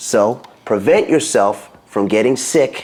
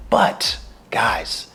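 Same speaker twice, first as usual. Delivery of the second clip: whisper; 2 semitones lower, 5 dB quieter than usual. Real, not acted. Turns back to serious advice.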